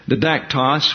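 didactos stressed on the second syllable; stress on DAC. Shown as a demonstration. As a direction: settle on di-DAC-tos, middle syllable emphasized. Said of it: "we'll pronounce it".

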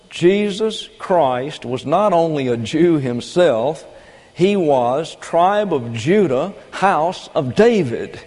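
slow and weighty, each phrase set apart; deliberate slow sermon cadence; slow emphatic preaching. Real, not acted. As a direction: lay out the lineage slowly for effect. Preacher stressing Jesus' lineage.

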